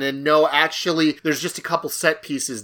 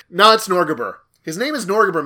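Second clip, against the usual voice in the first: numb mouth from Novocaine; slurred through a numb lip; numb from the dentist; 5 semitones higher, 5 dB louder than usual. Real, not acted. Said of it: "You sure you're all right?".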